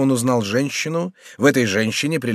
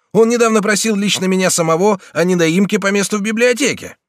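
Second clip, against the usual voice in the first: higher, louder lively recollection; animated; 9 semitones higher, 5 dB louder than usual. Acted. The regent realises who the clerk is, animated. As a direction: bring it up with sudden energy.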